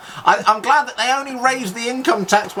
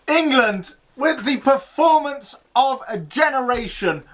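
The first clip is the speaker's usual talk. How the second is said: excited sports commentator. Acted. Jubilant commentator calling the win.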